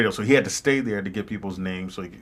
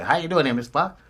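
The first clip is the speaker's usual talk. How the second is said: limo driver; 6 semitones higher than usual. Retold or imitated. Retold limo driver, Jamie Foxx story.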